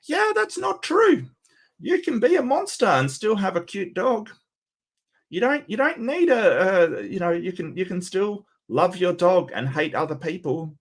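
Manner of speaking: incredulous pushback. Real, not acted. Mocking retort to the clip.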